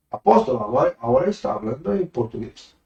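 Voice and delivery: the listener's correction, voiced in Spanish. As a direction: repeat it with Spanish pronunciation. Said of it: "agora o senhor tá falando". (em espanhol)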